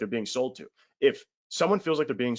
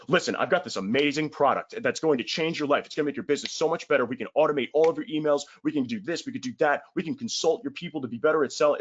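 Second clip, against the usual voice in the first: pushy sales pitch; 3 semitones higher than usual. Pretend. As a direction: rattle it off like a cheesy salesman. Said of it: "then you just go".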